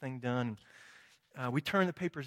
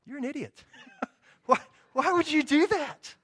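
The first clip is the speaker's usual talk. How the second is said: blunt rebuke; 12 semitones higher, 11 dB louder than usual. Retold or imitated. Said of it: "he was not tender with me".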